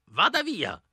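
put-on old woman shouting from behind the door; an old lady threatening to shoot; strangely deep voice. Old woman yells at strangers at her door, threatening. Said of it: "gridò lei".

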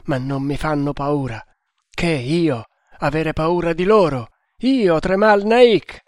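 feverish rambling with sudden surges of emphasis; mildly raving, proud hunter; delirious hunter. Acted. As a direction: boast through the fever, dwelling on key words. Delirious boast of wounded hero.

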